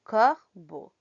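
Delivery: "Corbeau" ending in a pure O; careful model of "Corbeau" for learners; EAU as O. Shown as a demonstration. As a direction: punch the first syllable of "Corbeau", then a clean "bo". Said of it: "Ajá, E A U O".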